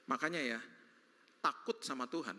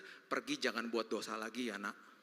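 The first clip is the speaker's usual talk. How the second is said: tender; 5 semitones lower, slower than usual. Retold or imitated. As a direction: send her away kindly. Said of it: "Makanya dia ngomong begitu".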